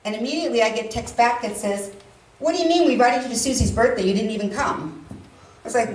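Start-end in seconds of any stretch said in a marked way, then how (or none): 2.4-5.1 quick, indignant comeback; offended retort. Retold or imitated. Cousin texts back about missed birthday, offended. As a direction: fire back, mildly affronted.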